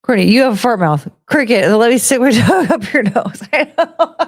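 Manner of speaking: shouting the tease while laughing; loud giggly teasing. Real, not acted.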